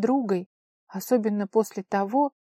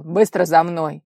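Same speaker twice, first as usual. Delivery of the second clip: loud, slow commanding order; 10 dB louder than usual. Acted. Father ordering them to follow, loud slow command. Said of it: "и приказал".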